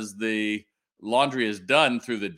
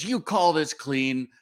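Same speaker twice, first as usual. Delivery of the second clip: slow, scornful, pitched higher; indignant boss; 6 semitones higher, slower than usual. Retold or imitated. Stern woman scolding the janitor at the sink, slow mock scorn. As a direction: drag out the demand in mock disdain. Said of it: "And she goes".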